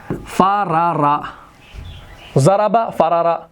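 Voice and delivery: each syllable drawn out slowly; slow dictation. Shown as a demonstration. Teacher dictating the root to students, very slow. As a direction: spell it out slowly for students to write. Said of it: "तो हम यहाँ पर लिखेंगे ऐसे".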